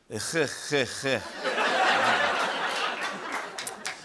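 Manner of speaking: throaty, wordless "heh heh heh"; mock sinister cackle; hacker's noise. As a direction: imitate a menacing message with drawn-out throaty noises. Retold hacker message, just a noise.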